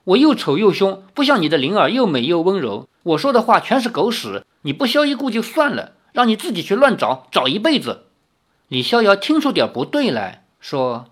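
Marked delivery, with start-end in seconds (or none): 0.0-8.0 bitter, higher-pitched sarcasm; resentful. Acted. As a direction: spit out the hurt spitefully. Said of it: "林月如恨恨地说".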